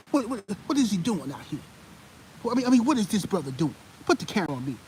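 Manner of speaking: mock the pundit tearing into a player; lightly voiced stern sports pundit; imitating Stephen A Smith. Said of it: "this is what he would say".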